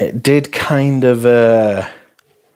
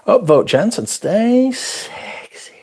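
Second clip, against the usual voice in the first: attempted Australian accent; 8 semitones higher, slower than usual. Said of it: "Can't do an Australian accent".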